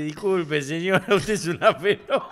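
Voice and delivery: imitated apology breaking into a laugh; retold apology, laughing. Marcelito apologizing to the popcorn-hit lady, laughing retelling. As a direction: quote the apology through laughter. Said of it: "Y la señora dijo".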